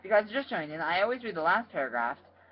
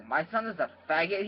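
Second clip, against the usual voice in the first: growled; 4 semitones higher, 3 dB louder than usual. Acted. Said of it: "he growled".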